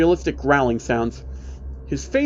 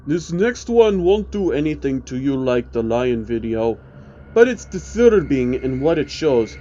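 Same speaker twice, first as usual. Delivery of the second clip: the man explaining. Acted. Man voiced in narrated story.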